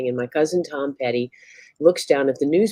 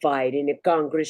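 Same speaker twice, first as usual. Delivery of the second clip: put-on Italian accent. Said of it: "like a loud Italian".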